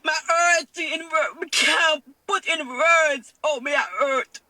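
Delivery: crying. Real, not acted. Crying again while describing pain.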